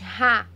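ra com R forte e prolongado; strong R. Shown as a demonstration. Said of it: "Tem um som mais forte". ("Ra" com som forte e prolongado)

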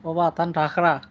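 Sylheti example phrases; Sylheti dialect. Shown as a demonstration. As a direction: demonstrate Sylheti speech to viewers. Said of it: "এটা হলো সিলেটি ভাষা". (সিলেটি টানে বলা)

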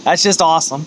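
sarcastic. Real, not acted.

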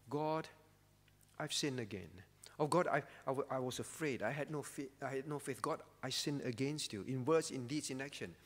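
a hushed, lightly voiced confession; contrite prayer. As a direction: murmur it to God, ashamed.

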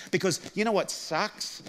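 normal talking voice

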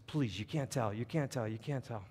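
hushed, repeated plea; frantic pleading. Acted. Boy begging his little sister not to tell, hushed pleading. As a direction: beg softly for a secret to be kept. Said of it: "and he's frantic".

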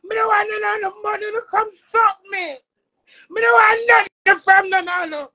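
crying out to be left alone; upset shout. Real, not acted. Friend begging her auntie to leave her alone, tearful shout. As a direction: voice breaking into a tearful yell.

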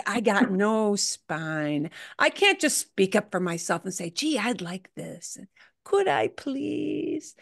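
a hint of a spineless whiner; whiny timid voice. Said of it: "That whiny kind".

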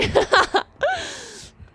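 nervous laugh, pitched high; high relieved laugh. Real, not acted. After a scare in the match, high shaky laugh. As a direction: laugh off the fright.

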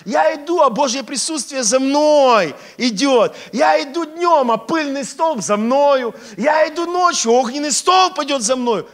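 loud, high preaching at full force; exultant proclamation. Pretend. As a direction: proclaim it in triumph to the whole hall. Preacher imagines triumphant walk with God.

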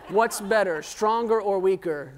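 lively question. Shown as a demonstration. Pastor showing the congregation the right way, upbeat. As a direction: sell the question to the crowd, grinning. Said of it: "You have to say it like".

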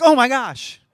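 mock gasp of shock, high and loud; hammed-up surprise. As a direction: play God as comically startled. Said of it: "It's not like he's like".

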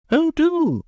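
high, loud eager plea; earnest plea. A narrator's reading. Guest urging Leonard to do magic, eager. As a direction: beg him eagerly to try. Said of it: "said Mavis Pellington earnestly".

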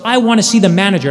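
imitating a customer going ballistic; retold angry yell. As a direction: rattle it off like an irate customer, only half yelled. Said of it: "she goes ballistic and she yells".

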